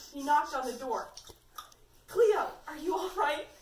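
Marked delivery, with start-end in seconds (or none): 2.1-3.5 louder, higher concerned question; calling out. A narrator's reading. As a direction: call through a door to check on someone. Calls through the bathroom door.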